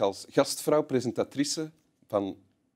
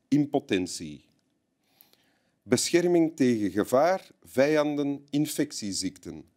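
advert read-out; 2 semitones higher than usual. Acted. Reads out a clairvoyant's advert.

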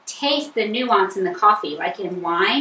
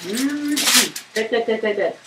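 chewing while saying good; tasting off spoon; slower than usual. Real, not acted. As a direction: mumble through a mouthful of steak. Tasting steak off the pan.

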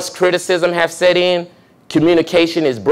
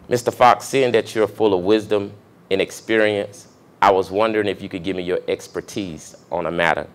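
softly praising request; 8 semitones lower, 8 dB quieter than usual. Shown as a demonstration. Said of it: "Here's an excellent way".

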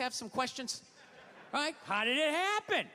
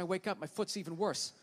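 ordinary delivery

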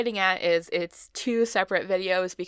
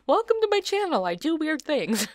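announcer intro voice; 8 semitones higher, 4 dB louder than usual. Pretend. Mock intro voice.

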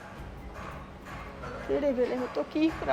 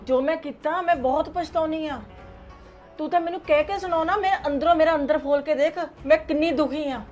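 higher, louder desperate begging; mother pleading through tears, climbing higher; tearful pleading; 5 semitones higher, 4 dB louder than usual. Acted. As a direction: beg her son to believe her remorse. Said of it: "ਤੁਹਾਡੇ ਹੰਝੂਆਂ ਦਾ ਕੋਈ ਅਸਰ ਨਹੀਂ".

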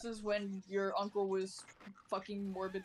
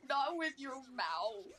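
mock scolding; 3 semitones higher than usual. Same teasing mock scolding.

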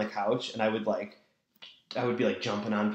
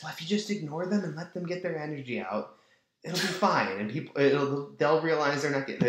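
mocking parent voice; 5 semitones higher than usual. Mocking permissive parents' advice.

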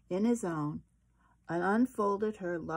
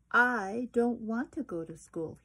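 put-on a touch louder, pleading child voice; upset little raccoon; 4 semitones higher, 5 dB louder than usual. Chester begging his mother to stay home, lightly voiced upset child. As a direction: whine it like a kid who won't go.

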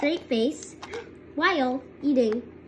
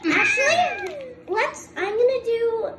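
laughing; 9 semitones higher, 5 dB louder than usual. Real, not acted. Laughing mid-challenge.

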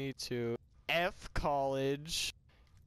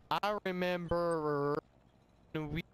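put-on very drawn-out, higher drunk voice; drunken reminiscing; 4 semitones higher, much slower than usual. Drunk reminding old friend of nicknames, slow drawn-out voice. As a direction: stretch the words like a sloppy drunk.

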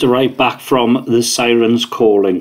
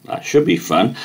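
dry sarcastic remark; 2 semitones lower than usual. Real, not acted. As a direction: say it sarcastically, meaning the opposite. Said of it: "he says sarcastically".

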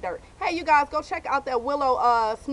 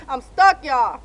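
loud; 8 dB louder, slower than usual. Real, not acted. Stuck, calling out.

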